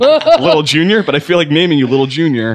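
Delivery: high mock fatherly voice; high put-on voice teasing an imagined kid; silly voice to son.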